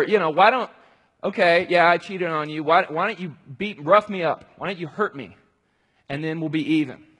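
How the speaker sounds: unfaithful husband pleading to be punished and forgiven; cheating husband bargaining. Retold or imitated. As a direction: bargain loudly with the wife he betrayed. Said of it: "maybe he's like".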